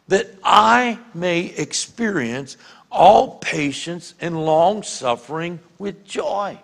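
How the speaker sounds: deliberate, spaced-out prayer with stressed pronouns; personalized scripture prayer. Shown as a demonstration. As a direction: pray it deliberately, weighting the key words. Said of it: "And look what it says".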